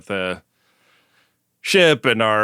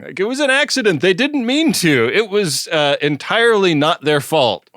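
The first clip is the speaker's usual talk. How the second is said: innocent Rok-Tahk; 8 semitones higher, 3 dB louder than usual. Retold or imitated. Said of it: "does a great job of covering for the gang".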